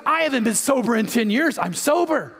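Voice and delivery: mildly amazed, rising in pitch. Acted. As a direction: play growing disbelief at your own news. Drunk man amazed at sudden sobriety.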